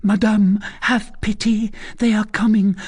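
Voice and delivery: high, frantic pleading; mad with fright. A narrator's reading. Condemned girl begs the recluse for mercy, mad with fright. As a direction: beg for your life in a high, urgent voice. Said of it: "mad with fright".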